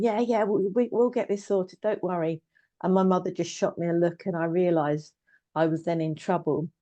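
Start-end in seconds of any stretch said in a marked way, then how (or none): 0.0-2.4 retold cheer, pitched higher; a dad cheering his kid on, higher up. Dad cheering on daughter who vows to ride a bike, higher and lightly excited. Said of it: "like, cheering".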